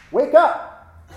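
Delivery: loud, high-pitched command to wake; a jolting Zen master's shout; sudden shout. Acted. Zen master jolting students toward enlightenment, sudden shout.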